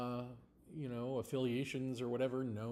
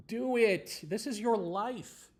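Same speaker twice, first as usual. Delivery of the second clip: louder, punchy command; forceful urging; 7 semitones higher, 6 dB louder, slower than usual. Real, not acted. Urging his listeners, a louder punchy command. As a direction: push them to just do it.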